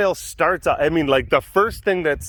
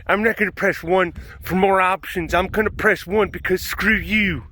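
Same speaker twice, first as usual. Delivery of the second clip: voicemail woman imitation; 4 semitones higher than usual. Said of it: "this is how it started".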